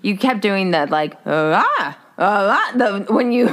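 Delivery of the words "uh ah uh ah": imitating hesitant uhs. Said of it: "the tone of your voice is like".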